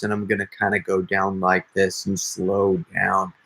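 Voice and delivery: put-on slow down into a raspy old man; drawn-out old man with rasp, easing into character. Shown as a demonstration. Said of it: "bit of a rasp in my voice here".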